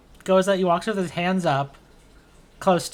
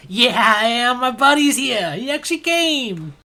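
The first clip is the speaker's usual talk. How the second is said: much higher, loud gushing welcome; overjoyed friend; 8 semitones higher, 7 dB louder than usual. Acted. Marty hugging his old friend Sieg, high and thrilled. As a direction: burst out with reunion joy. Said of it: "He goes".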